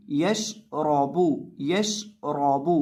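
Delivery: Yash रॉबू with a thick, rounded ra; heavy ra. Shown as a demonstration. Teacher showing ra under zabar, heavy ra in Yash रॉबू. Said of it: "रॉ को मोटा करेंगे".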